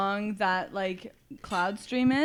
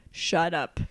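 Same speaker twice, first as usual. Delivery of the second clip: annoyed; 16 dB louder, much slower than usual. Retold or imitated. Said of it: "He's like".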